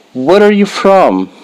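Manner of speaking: lively natural take. Shown as a demonstration. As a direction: ask it like a real friendly question. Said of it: "slow model then natural".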